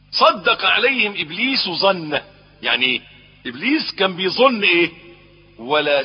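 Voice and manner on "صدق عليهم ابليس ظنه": صدق stressed, slow and higher; stressed repeat. Shown as a demonstration. Preacher repeating the verse to stress صدق, slow. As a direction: lean into صدق, slowly. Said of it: "ولقد صدق عليهم ابليس ظنه".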